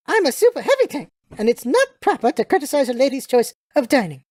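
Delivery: lightly voiced indignant British lady; haughty British lady. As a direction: play a put-out, imperious English lady.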